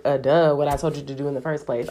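mock-snarky God, quick on the second line; sarcastic duh. God answering the helpless believer, mock snarky. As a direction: toss it off like it's obvious. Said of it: "he doesn't say it like that".

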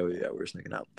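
unvoiced whisper, like sneaking. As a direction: breathe it out secretly.

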